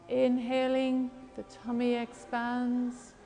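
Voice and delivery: calm, unhurried guidance with long pauses; guided breathing meditation. Real, not acted. Leads a breathing exercise.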